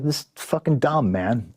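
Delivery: high, incredulous "this is fucking dumb"; exasperated. Retold or imitated. Telling Jack off about the rental car, pitched high and incredulous. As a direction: pitch up in disbelief at a dumb stunt. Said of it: "I was just like".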